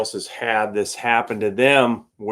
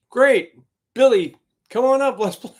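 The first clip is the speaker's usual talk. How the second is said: much higher and louder, delighted; relieved and excited; 12 semitones higher, 5 dB louder than usual. Retold or imitated. Band calling Billy up to the stage, excited and much higher. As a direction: rescue has arrived. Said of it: "band welcoming Billy on stage".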